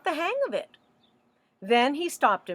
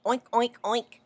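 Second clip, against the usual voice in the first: pig oinks. Acted. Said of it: "said Pig and Pig".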